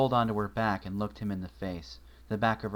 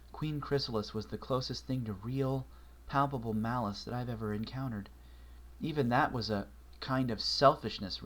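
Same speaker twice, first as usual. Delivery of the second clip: lightly voiced young mare; 2 semitones higher than usual. Twilight telling Marshall about the creature, lightly voiced and uneasy.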